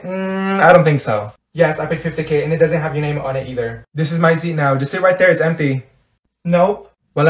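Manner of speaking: normal talking voice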